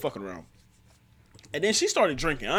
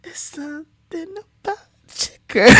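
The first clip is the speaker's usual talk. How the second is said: cracking up; 8 dB louder than usual. Real, not acted. Cracking up while reacting.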